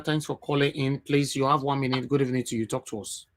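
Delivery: ordinary talk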